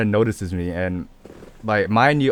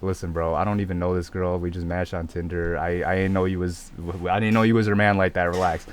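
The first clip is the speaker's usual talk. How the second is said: calm, civil; 3 semitones lower, 4 dB quieter than usual. Retold or imitated. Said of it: "I was trying to be civil".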